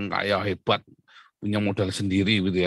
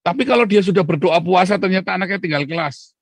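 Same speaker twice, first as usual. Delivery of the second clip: emphatic preaching; 7 semitones higher, 6 dB louder than usual. Real, not acted. Preacher building to climax.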